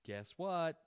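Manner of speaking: high, loud, mock-dramatic question; playful tease; teasing guess what. Real, not acted. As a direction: build suspense for the viewers. Teasing audience.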